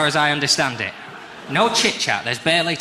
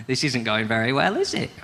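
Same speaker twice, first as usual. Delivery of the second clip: nervous comic; 3 semitones lower than usual. Acted. New comic to audience, uneasy, pitch jumping at the end. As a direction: admit the tension, pitch leaping on "is it". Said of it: "So you go".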